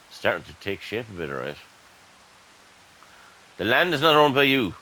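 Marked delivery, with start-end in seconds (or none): 3.6-4.7 louder, annoyed read-out of the game warning; reading the message aloud. Real, not acted. Gamer reads the error popup to viewers, loud and annoyed. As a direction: announce the error with irritation.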